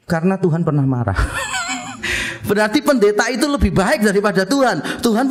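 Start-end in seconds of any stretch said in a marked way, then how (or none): 0.1-2.5 laughing at own punchline. Real, not acted. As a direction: land the joke and laugh.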